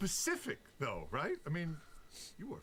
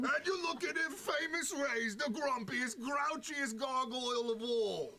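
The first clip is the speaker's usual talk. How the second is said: put-on New York accent. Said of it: "are they, like, New York or Jersey".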